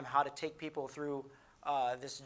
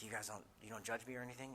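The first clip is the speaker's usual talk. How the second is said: timid question; 4 semitones lower, 10 dB quieter, faster than usual. Retold or imitated. Ashamed man cautiously asks friends.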